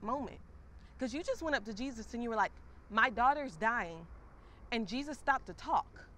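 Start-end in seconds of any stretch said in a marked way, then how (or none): 2.9-4.1 slow, louder, pleading; a father's slow, urgent plea; desperate plea. Retold or imitated. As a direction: beg for your dying child. Jairus begging Jesus, voiced.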